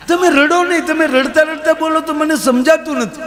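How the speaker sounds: calm the crying son-in-law in a squeaky panic; mother-in-law begging the sobbing son-in-law to control himself; soothing mother-in-law. Retold or imitated. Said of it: "કુમાર રોવા માંડ્યો".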